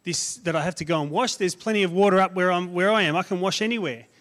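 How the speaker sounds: angry Naaman. Acted. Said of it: "Naaman was angry".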